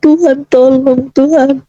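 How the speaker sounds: choked-up cry for help to God; tearful pleading. Retold or imitated. Mother praying night and day for her child, tearful pleading. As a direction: beg God, close to tears. Retold begging prayer to God.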